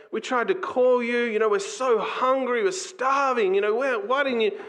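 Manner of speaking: put-on high, whiny protest of upset kids; upset teenagers. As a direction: act out hungry kids complaining to their parent. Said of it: "they're so upset".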